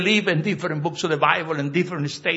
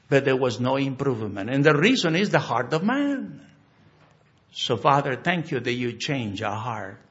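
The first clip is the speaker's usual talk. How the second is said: closing prayer; 3 semitones lower than usual. Real, not acted. Pastor leading the congregation in closing prayer, hushed and reverent.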